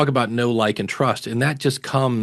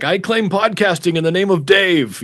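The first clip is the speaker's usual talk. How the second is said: mock conqueror; 7 semitones higher, 3 dB louder than usual. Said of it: "I just grabbed my flag and I'm like".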